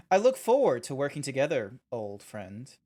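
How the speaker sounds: put-on a touch of sinister charm on old friend; lightly menacing warm farewell; evil. Streamer voicing the NPC's farewell, mildly sinister. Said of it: "you just make it sound so evil".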